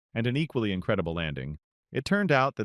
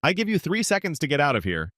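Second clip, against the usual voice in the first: angry; 7 semitones higher, 3 dB louder than usual. A narrator's reading. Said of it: "Angered by this insolent behavior".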